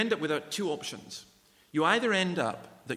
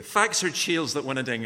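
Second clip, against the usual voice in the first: louder, deliberate broad Scots; broad Scottish accent; 6 dB louder than usual. Shown as a demonstration. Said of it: "Say that again, just a bit more slowly".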